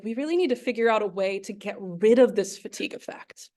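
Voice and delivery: mock whispered inner resolve; whispered thought. Lecturer recalling the team's resolve, in a half-whisper. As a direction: breathe it out as a secret plan. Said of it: "we were like".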